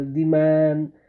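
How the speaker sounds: very slow "the man", "the" long "दी"; stressed "thee". Shown as a demonstration. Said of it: "जोर देना हो तब हम लोग दी का उच्चारण".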